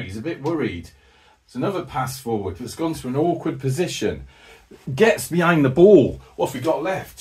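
running match commentary, lively and quick; live play-by-play. Acted. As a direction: call the game as it unfolds.

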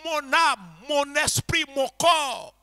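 slow, fervent, building cry to the Lord; prière fervente, de plus en plus forte; model prayer. Shown as a demonstration. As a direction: show them how to pour out their thirst in prayer. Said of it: "exprime-le au Seigneur".

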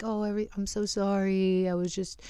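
retold make-nice pleading, lightly acted; imitated nice apology. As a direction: mimic him sweet-talking an apology. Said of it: "trying to be all nice".

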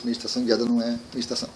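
fast, throwaway restating of the claim; quick self-quote. Retold or imitated. The speaker quoting his own bold claim to viewers, rushed. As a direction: rattle off the provocative line quickly. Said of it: "E aí chegou o Luiz e diz".

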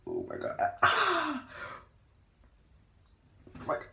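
gasping from the freezing cold; shocked by icy water, gasping; in ice cold water. Real, not acted. Sitting in the ice bath.

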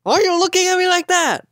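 loud, high squeal of a voice; squeaky high voice. Pretend. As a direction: strain up into a piercing squeak. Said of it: "When I try making that sound".

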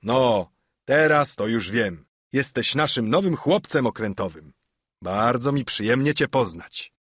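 hearty loud welcome. Acted. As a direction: welcome the new ship's boy heartily. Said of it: "rzekł głośno".

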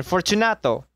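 lightly voiced second call; calling again. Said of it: "I called again".

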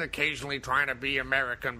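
imitating a badly faked American accent; attempted American accent. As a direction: mimic a shaky try at American. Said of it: "trying to do an American accent".

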